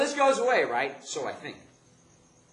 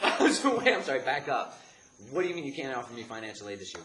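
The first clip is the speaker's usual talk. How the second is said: shocked disbelief; 5 semitones higher, 10 dB louder than usual. Retold or imitated. Shocked student questions aid refusal.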